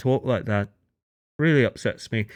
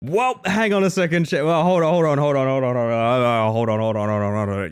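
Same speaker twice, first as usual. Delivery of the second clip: flustered stalling; 2 semitones higher, 3 dB louder than usual. Real, not acted. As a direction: scramble to stop everything, fading as you go. Scrambling after an unexpected turn mid-stream.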